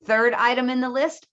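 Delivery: "list" lifted at the end; "third item in the list" with a continuing rise; list intonation. Shown as a demonstration. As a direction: keep the series open, pitch up on "list".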